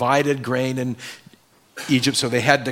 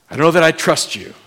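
defiant doubt; 3 semitones higher, 5 dB louder, faster than usual. Acted. Doubter answering God.

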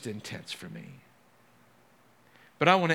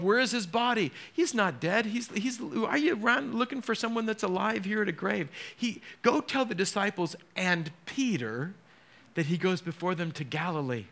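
raised, urgent angel announcing; angel at the tomb; 7 semitones higher than usual. Retold or imitated. Angel telling the women at the tomb, raised and eager. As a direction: tell them he's alive, high and eager.

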